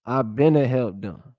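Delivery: Gullah Geechee creole sentences, lightly voiced; reading Gullah examples. Shown as a demonstration. Vlogger reads Gullah grammar examples to viewers, lightly accented. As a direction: sound out the Gullah verb forms, a hint of Gullah accent. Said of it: "it sound like broken English".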